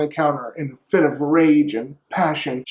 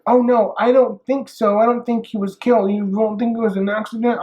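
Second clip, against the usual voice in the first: nervous denial; 7 semitones higher than usual. Acted. Lily nervously denying to Julie.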